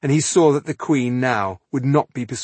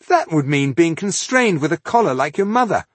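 raised, louder voice of horror; horrified; 7 semitones higher, 5 dB louder than usual. A narrator's reading. Rodario hearing of the oath of allegiance, horrified. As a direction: protest in horror, pitched up.

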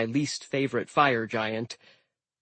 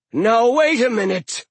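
giant captain voice; 10 semitones higher, 7 dB louder than usual. Acted. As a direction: speak like an old ice giant. Hrym voiced.

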